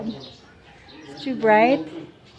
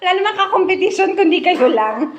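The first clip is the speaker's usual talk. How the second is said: talking through giggles; quick words between laughs; laughing; 8 semitones higher, much faster than usual. Real, not acted. Laughing while watching coin grab.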